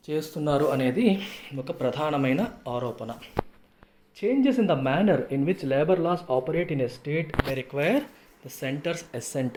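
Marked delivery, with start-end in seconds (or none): 4.2-9.5 slow, deliberate classroom reading; measured read-out of a formal text; article read-aloud. Real, not acted. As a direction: read it out slowly, word by word.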